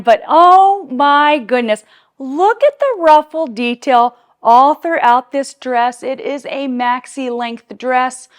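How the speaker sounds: loud, drawn-out gushing into the mic; excited yelling. Real, not acted. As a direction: belt out each feature slowly, carried away. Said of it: "I don't know why I'm yelling into the mic".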